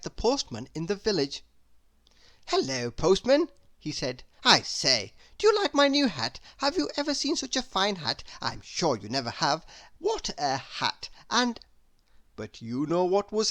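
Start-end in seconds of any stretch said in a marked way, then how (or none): 2.5-3.5 breathless, eager chatterbox rambling on; a silly, delighted gossip who can't stop talking; chattering Mr Chatterbox. Acted. Chatterbox greets postman. 4.4-11.6 breathless, eager chatterbox rambling on; a silly, delighted gossip who can't stop talking; chattering Mr Chatterbox. Acted. Chatterbox shows off hat.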